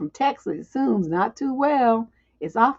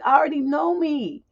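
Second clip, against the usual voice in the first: ordinary delivery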